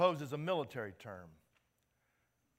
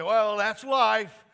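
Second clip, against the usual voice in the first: slow, loud, mock resigned voice; resigned shrug; 8 semitones higher, 17 dB louder, much slower than usual. Pastor mocking how people excuse conflict, in a slow mock-resigned voice. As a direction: play the defeated everyman. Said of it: "And we say".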